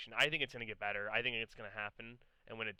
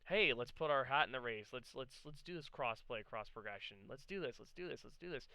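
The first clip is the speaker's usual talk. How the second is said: acted-out keen chant, pitched up; eager companies; 2 semitones higher than usual. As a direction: imitate companies keen to get going. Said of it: "companies kind of just say".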